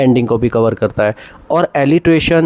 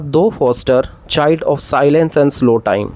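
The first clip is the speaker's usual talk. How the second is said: very slow, measured recital of the line; slow classroom recitation; slow poem reading; much slower than usual. Shown as a demonstration. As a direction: read it out like a poem. Reciting Keats example.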